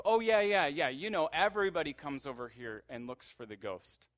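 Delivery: high, loud, over-eager yeah yeah; nervous fake brightness; flustered cover-up. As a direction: gush to hide the lie. Angel awkwardly covers her tracks.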